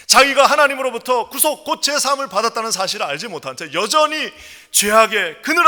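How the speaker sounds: loud, high, fervent pulpit proclamation; impassioned sermon climax, driving each phrase; full-force preaching. Real, not acted. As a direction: proclaim it to the whole congregation.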